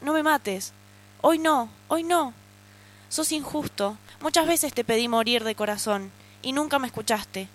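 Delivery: first-person reading of a dark story; dramatic story reading. Acted. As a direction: read it as an inner monologue of panic. Reads her panic attack story.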